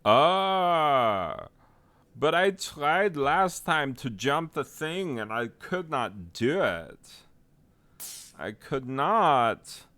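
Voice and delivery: high, loud melodramatic protest; overwrought, high-pitched movie-star imitation; cult movie impression. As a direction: wail the denial like a wounded B-movie hero. Quoting The Room scene.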